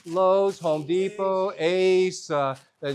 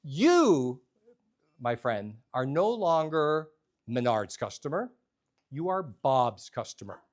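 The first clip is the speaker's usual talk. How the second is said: slow, lower, with weighty pauses; clerk's grand declaration; 5 semitones lower, slower than usual. Retold or imitated. Clerk claiming a customer as his own, slow grand declaration. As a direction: draw out the first word, then drop low and deliberate. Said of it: "He goes".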